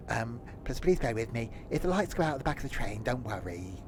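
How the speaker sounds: lightly voiced guard on the tannoy; train guard announcement. Tony the guard welcomes passengers aboard, mock announcement.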